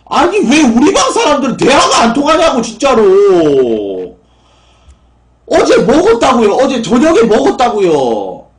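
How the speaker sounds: loud, high-pitched outburst of frustration; exasperated shouting. Real, not acted. Streamer fed up with viewers who don't listen, exasperated shouting. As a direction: yell it at people who won't listen, dragging the line endings.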